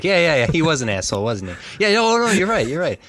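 quick, high-pitched mock agreement; blowing it off. Villain shrugging off an insult to his brother, hastily dismissive. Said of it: "blows it off".

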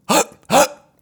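two sharp, loud, high inhaled yelps; high-pitched gasped inhale noises. Shown as a demonstration. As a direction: gasp inward twice like a fish out of water. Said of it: "it was more of an inhale kind of a thing".

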